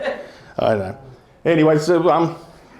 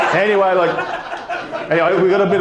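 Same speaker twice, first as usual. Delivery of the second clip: laughing; 5 semitones higher, 5 dB louder than usual. Real, not acted. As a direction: still cracking up, drag out anyway. Laughs after punchline.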